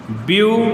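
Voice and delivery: ब्यूटीफुल in three parts, ब्यू, टी, फुल, long pauses between; syllable-by-syllable. Shown as a demonstration. Teacher making pupils feel syllables, syllable-by-syllable. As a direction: break ब्यूटीफुल into widely separated syllables. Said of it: "देखिए syllable महसूस कराऊँ".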